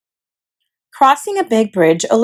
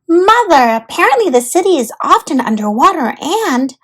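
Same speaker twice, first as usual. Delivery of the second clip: put-on bright little girl voice, higher; Olivia's voice; 5 semitones higher than usual. Olivia explaining Venice to her mother, girlish voice. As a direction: play the eager girl.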